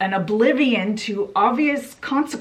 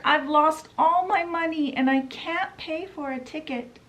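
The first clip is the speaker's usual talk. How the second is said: higher, put-on old washerwoman voice; Toad as washerwoman; 6 semitones higher than usual. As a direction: play a meek poor washerwoman.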